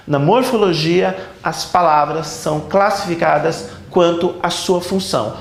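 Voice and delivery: slow, measured dictation. Real, not acted. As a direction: spell it out slowly for note-takers. Teacher dictates for students to note.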